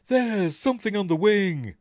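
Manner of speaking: dramatic halting Shatner delivery; high, loud Shatner voice; William Shatner impression. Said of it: "William Shatner impression".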